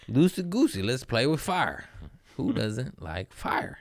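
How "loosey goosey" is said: singsong. Shown as a demonstration. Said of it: "Just fucking loosey-goosey".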